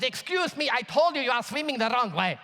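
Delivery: imitating an irate German man's repeat warning; mock angry German. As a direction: scold the swimmer for ignoring you, mildly acted. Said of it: "This time he's angry, screaming at my brother".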